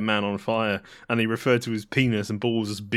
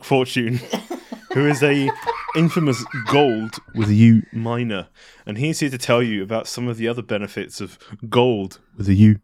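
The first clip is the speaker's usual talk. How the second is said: ad read. Acted. Fake crypto ad pitch.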